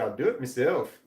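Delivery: imitated Irish "meself"; Irish accent. Quoting a woman on TV, imitated Irish accent. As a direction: say "myself" as Irish "MEE-self". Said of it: "had a strong Irish accent".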